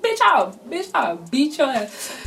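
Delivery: squaring up with a cocky dare; mock threat. Girl taunting the boy mid-fight, mock threat.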